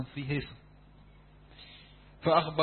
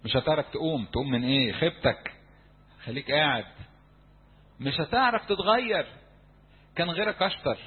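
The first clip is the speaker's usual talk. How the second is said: higher, louder taunting voice; discouraging voices; 3 semitones higher, 4 dB louder than usual. Retold or imitated. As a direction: taunt him like the inner critic. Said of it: "عارفين الأصوات دي". (صوت الإحباط الساخر العالي)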